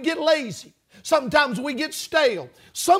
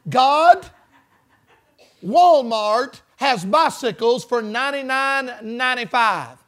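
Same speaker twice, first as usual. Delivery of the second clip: mock screamed prayer. Little boy praying for a bicycle, mock hollered prayer. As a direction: imitate a boy hollering a prayer with long held vowels. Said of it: "started screaming his prayer".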